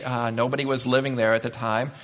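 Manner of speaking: ordinary talk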